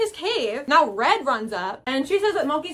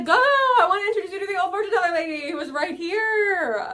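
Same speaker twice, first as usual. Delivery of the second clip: laughing; 7 semitones higher than usual. Real, not acted. Laughing while voicing Moki.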